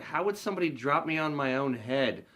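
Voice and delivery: put-on odd kid answering literally; innocent kid voice. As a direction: ask it earnestly like a small child.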